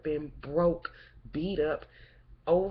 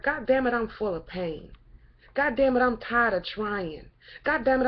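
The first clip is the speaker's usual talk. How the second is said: exasperated venting. Real, not acted. Venting tiredness and pain.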